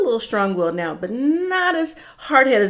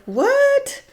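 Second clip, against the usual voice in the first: mock shocked what. Viewers' imagined reaction.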